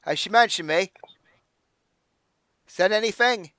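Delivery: put-on drunkenly slurred, high and loud; slurred drunk. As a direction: slur it like he's wasted. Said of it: "it's so slurred you can barely understand it".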